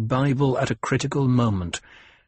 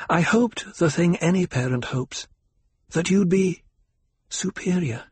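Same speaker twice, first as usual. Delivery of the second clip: higher, halting, softening confession; pained mother; 5 semitones higher than usual. A narrator's reading. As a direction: explain a parent's hope, faltering toward the end. Mother answers son's accusation hesitantly.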